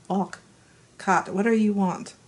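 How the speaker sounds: rough attempt at a Scottish accent; amateur Scottish accent. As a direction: try a light, unpractised Scots voice. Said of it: "Scottish accent needs a lot of work".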